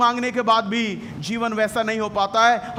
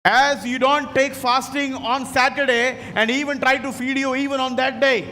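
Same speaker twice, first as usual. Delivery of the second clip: emphatic repeat; much slower than usual. Real, not acted. Preacher repeats line for interpreter.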